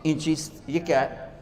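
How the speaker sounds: mock-innocent rustic asking, soft; a hint of a simple villager asking innocently; soft innocent question from a barefoot villager. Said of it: "बड़े भोलपन में कहते हैं".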